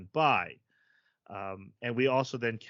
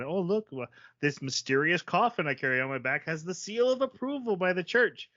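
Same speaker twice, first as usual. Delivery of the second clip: higher, breezy fake explanation; mock-innocent bluff; 5 semitones higher than usual. Lying their way past town guards, mock-innocent. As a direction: sell the lie to the guards lightly.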